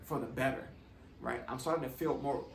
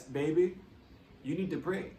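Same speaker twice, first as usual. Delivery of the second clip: imitating a light Jamaican accent, a little higher; nurse's Jamaican lilt, lightly put on; 3 semitones higher than usual. Caregiver nurse urging the patient to pray, light Jamaican accent. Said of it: "I tried to do the accent".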